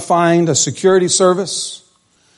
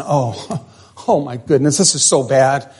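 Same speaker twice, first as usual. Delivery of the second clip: despairing sigh; 3 semitones lower than usual. Retold or imitated. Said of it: "he was basically just saying".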